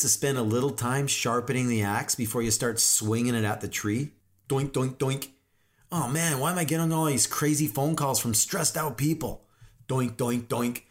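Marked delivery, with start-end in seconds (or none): 4.5-5.3 "doink" as a dull axe bouncing; even, rhythmic mock chopping noises; imitated axe chops. Mimes axe hitting the tree. 5.9-9.5 mildly exasperated mock complaint; a touch of put-on whining. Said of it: "frustrated with everyone else whining". 9.9-10.8 "doink" as a dull axe bouncing; even, rhythmic mock chopping noises; imitated axe chops. Mimes axe hitting the tree.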